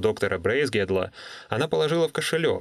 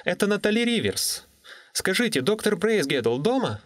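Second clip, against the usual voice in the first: crisp, careful words, higher voice; clear young woman's voice; 10 semitones higher than usual. Acted. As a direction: enunciate clearly into the phone. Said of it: "чётко произнесла".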